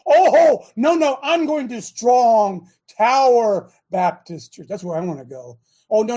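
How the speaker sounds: mock-eager picking of churches, exaggerated oh no no; sarcastic. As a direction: play fake enthusiasm for a joke. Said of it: "You get my sarcasm".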